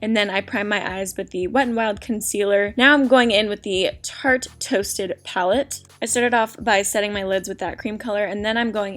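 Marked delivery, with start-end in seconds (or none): 0.0-7.6 talking around a lollipop; sucking a lollipop. Real, not acted. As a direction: lollipop in mouth while talking. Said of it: "Just ignore the sucker in my mouth".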